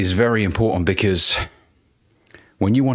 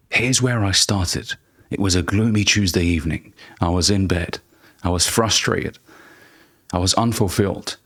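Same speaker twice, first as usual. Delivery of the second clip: storytelling voice. Shown as a demonstration. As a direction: draw them into the gloomy start of the story. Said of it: "The zero to hero story".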